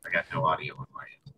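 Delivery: distant, echoing room mic. Real, not acted. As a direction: sound like a webcam mic across the room. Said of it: "you sound really echoey".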